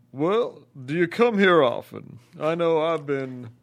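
smooth pickup line, slow and high; Al Gore impression. Shown as a demonstration. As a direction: Al Gore hitting on someone at a bar. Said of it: "singles bar Al Gore impression".

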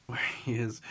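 whispering. Real, not acted. Quiet correction of the wording.

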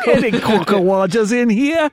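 high, laughing cockney bobby; cockney copper. Acted. Friend hamming up a cockney bobby searching the room. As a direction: poke around like a London policeman.

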